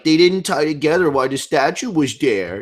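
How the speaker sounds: whiny mock complainer, lightly put on; a hint of obnoxious baby voice. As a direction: mimic a petty little baby griping. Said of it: "in that obnoxious voice I just did".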